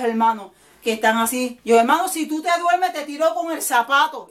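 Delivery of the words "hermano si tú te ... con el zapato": higher, teasing scold to a dozing brother; playful church scolding; mock scolding. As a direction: wake him with a playful threat.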